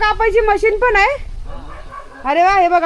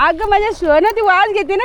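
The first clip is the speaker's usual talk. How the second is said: ordinary talk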